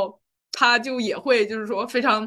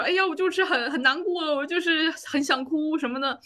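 higher-pitched coaxing whine, near tears at the end; whiny pleading; 5 semitones higher than usual. Retold or imitated. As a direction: act like a child wheedling her mom. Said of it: "有意无意的撒娇". (带哭腔地向妈妈撒娇，声音偏高)

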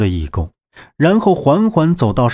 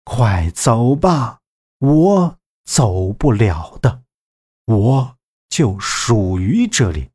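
tender; slower than usual. Acted. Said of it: "慈爱的面容像是在说".

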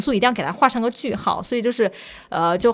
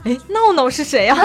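surprised mom; 4 semitones higher, 4 dB louder than usual. Retold or imitated. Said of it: "就很惊讶".

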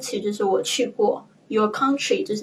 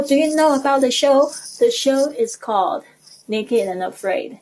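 "Do you know about the show?" as its own raised question, pause, then "The show is called Naked and Afraid." stepping down; two short sentences, "Do you know about the show?" pitched up, the answer settling down; split in two sentences; 5 semitones higher than usual. Shown as a demonstration. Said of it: "你可以就是分两句来说".

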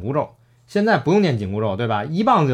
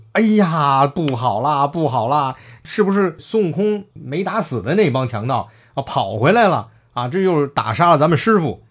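acted alarm; 2 semitones higher than usual. Zhu Bajie finding master struck down by returning bandits, mock panic. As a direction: play a flustered pig disciple raising the alarm.

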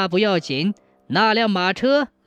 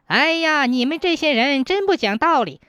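high, raised yelling after a fleeing man; ghost carter shouting; 5 semitones higher than usual. Acted. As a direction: call out indignantly while giving chase. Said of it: "一边喊".

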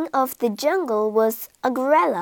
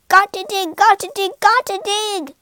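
higher, louder, rushed chant; frantic; 8 semitones higher, 4 dB louder than usual. A narrator's reading. Rat digging from the cat, frantic. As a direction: dig dig dig in a panic.

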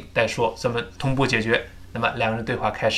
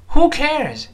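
"who cares" projected with a falling end; read aloud boldly; 12 semitones higher, 4 dB louder than usual. Shown as a demonstration. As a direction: call it out for the class to repeat. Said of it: "我们大声读一遍".

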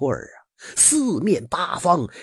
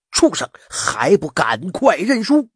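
higher, forceful storyteller's shout; loud rebuke; 6 semitones higher, 3 dB louder than usual. A narrator's reading. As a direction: call out a mildly raised command to surrender. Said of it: "大声喝道". (提高嗓门，略带厉声地喝令)

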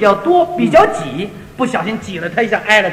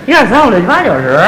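Beijing counting again; 2 semitones lower, 5 dB louder than usual. Shown as a demonstration. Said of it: "你学学".

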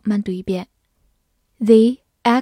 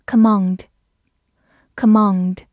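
slow word drill; 4 dB louder, much slower than usual. Shown as a demonstration. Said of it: "teacher's review of vocabulary words".

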